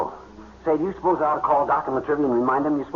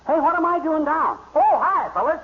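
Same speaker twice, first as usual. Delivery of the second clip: eager excitement; 11 semitones higher than usual. Acted. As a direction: bounce up all at once, raring to go. McGee suddenly wide awake, eager.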